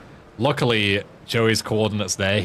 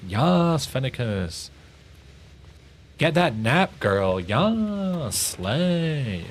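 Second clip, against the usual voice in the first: sassy cheer; 5 semitones higher, much slower than usual. Pretend. Mock hype cheering again.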